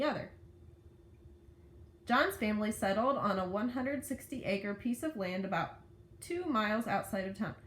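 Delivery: put-on lively read-aloud to children; story narration. A narrator's reading. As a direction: read the story with lifted key words.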